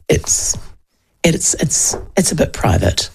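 a playful whisper about private votes; whispered aside. Retold or imitated. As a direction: whisper it like a secret. Confiding that voting is private.

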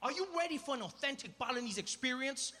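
big master-of-ceremonies build; show announcer. Retold or imitated. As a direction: present the act with grand, stretched words. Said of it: "he looks at us and he's like".

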